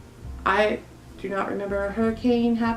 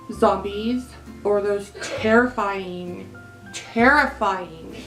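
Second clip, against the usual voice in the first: slow, hammed-up dread; drawn-out dread; slower than usual. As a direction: stretch out "terrifying" in mock horror. Drawn-out comic fear of lawn noises.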